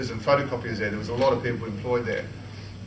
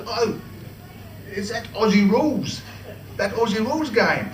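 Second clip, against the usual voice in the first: the Queen; 8 semitones higher than usual. Retold or imitated. Voicing the Queen.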